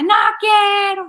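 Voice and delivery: slow, loud, high mock tantrum; defiant child. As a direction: stretch out a kid's stubborn yell. Niño repite gritando su negativa. (berrinche fingido, alargado y agudo)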